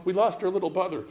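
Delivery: high-pitched frantic wail; hammed-up panic over someone lost; plead, pitch climbing as you go; excited, nervous. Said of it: "most excited voice, most nervous voice".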